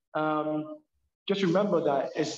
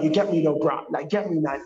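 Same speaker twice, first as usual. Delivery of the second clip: louder, loose London street slang; slangy London talk; 4 dB louder than usual. Retold or imitated. Guest mocking the slang he avoids, in London street talk. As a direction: throw it out like a London mate. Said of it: "I don't speak like".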